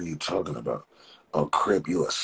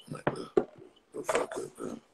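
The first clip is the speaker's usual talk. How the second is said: whispered aside; 7 semitones lower, 6 dB quieter than usual. Real, not acted. Muttered insults aside.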